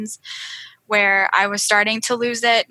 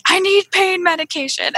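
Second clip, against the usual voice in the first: pleading, pitched high and louder; desperate plea; 9 semitones higher, 4 dB louder than usual. Retold or imitated. In labor, pleading with her husband for pain medication, high and urgent. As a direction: beg for the drugs, mid-contraction.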